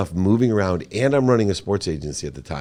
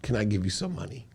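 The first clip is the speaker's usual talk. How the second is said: tender mom; 4 semitones higher, 3 dB quieter, faster than usual. Retold or imitated. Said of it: "I'm about to cry".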